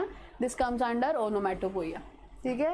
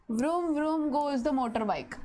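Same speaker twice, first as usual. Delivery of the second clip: reading the example slowly; slow, deliberate example sentence; slower than usual. Shown as a demonstration. Teacher to class, reading the example slowly. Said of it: "we'll see the example".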